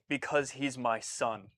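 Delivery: understated tender quote. Retold or imitated. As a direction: say it like a father's quiet confession. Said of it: "His line was".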